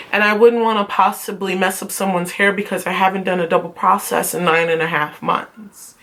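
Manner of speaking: mildly polite, measured low request. Retold or imitated. Student asking front desk girl for dispense, politely. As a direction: act out a careful, deferential ask. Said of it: "I'ma just politely go".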